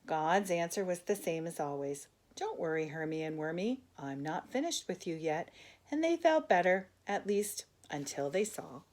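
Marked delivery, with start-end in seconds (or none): 2.3-5.5 gentle God. Acted. God answers softly.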